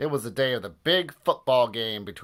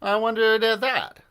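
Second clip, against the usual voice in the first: wondering fan; 11 semitones higher, 5 dB louder than usual. Acted. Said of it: "asked another fan".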